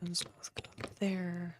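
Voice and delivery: soft unvoiced whisper, slow. Real, not acted. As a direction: breathe the words out quietly. Quiet building commentary, whispered aside.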